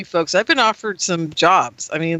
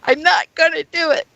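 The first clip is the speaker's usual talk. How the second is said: mad; 8 semitones higher than usual. Retold or imitated. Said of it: "banging my fist on the counter".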